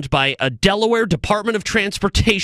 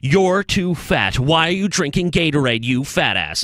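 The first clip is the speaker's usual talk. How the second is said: mocking PSA voice. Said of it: "the public service announcements are just".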